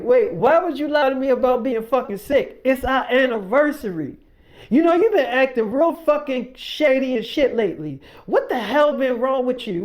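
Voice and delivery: imitated quarrel, pressing the accusation; retold angry confrontation. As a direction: act out an aggrieved boyfriend demanding answers. Acted boyfriend confronting her over lie.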